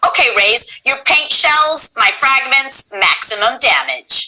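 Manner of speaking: lightly voiced game line; KO's line. Shown as a demonstration. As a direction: read the battle line calmly. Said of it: "K O says to".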